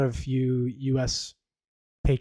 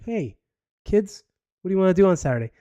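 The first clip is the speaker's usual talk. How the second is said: higher, fast sing-song parent voice; mock cheery parent; 5 semitones higher than usual. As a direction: play an overeager dad pitching a weekend. Mock parent asking kids.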